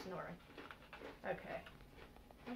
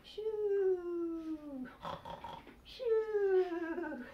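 hushing shoo; 7 semitones higher than usual. Acted. Hushing sleeping bunnies.

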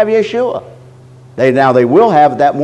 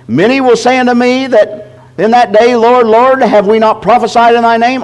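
higher, proclaiming scripture read; 5 semitones higher than usual. Acted. Preacher reads the verse aloud to the church, higher and proclaiming. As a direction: lift the verse up and declaim it.

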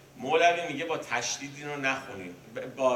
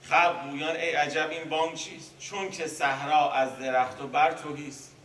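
a touch of wonder, pitch a bit higher; mild surprise; 3 semitones higher, 4 dB louder than usual. Acted. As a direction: read the people's question with light amazement. Rereading the verse, more animated. (خواندن دوبارهٔ بیت با کمی شگفتی)

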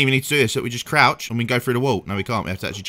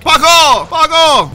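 much higher, loud frustrated swearing; angry outburst; 13 semitones higher, 9 dB louder, much slower than usual. Real, not acted. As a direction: curse at the game in frustration. Car fails the handbrake turn.

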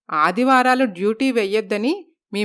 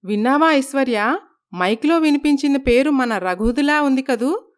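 surprised; 3 semitones higher than usual. Acted. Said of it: "Aishwarya ఆశ్చర్యపోతారు".

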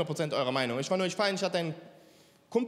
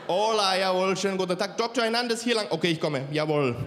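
lightly voiced Latino accent; a hint of a brisk Latino doctor; serious Latino doctor. Comedian playing the most serious Latino arriving, light Latino accent. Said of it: "der ernsteste Latino auf der Welt kommt so rein".

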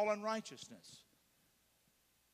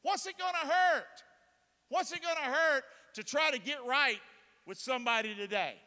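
much higher, louder voice of a nudging inner voice; mock self-talk; 6 semitones higher, 5 dB louder than usual. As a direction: egg yourself on in a put-on voice.

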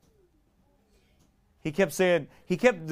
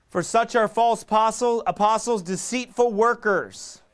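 loud, high, fervent preaching of the verse; preaching scripture; 8 semitones higher, 5 dB louder, slower than usual. Acted. Preacher reading Second Corinthians to the church, loud fervent proclaiming. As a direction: proclaim it to the congregation.

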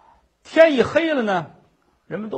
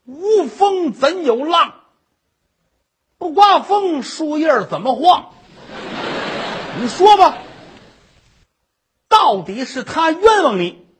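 pressing accusation; 4 semitones higher than usual. Acted. Drunk husband pressing his wife to confess, higher and insistent. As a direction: lean on her, demanding an answer.

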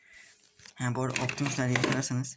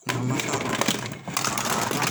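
roaring Hulk; 6 dB louder, much slower than usual. Pretend. Hulk shaking the party.

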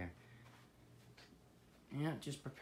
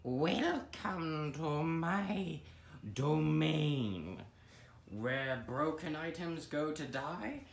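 mock grand host; 4 semitones higher, 5 dB louder, much slower than usual. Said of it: "third take of welcome line".

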